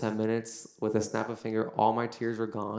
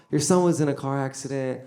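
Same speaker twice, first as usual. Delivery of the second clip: paramedic; 4 semitones higher, 7 dB louder than usual. Retold or imitated. Imitating paramedic breaking news to mother.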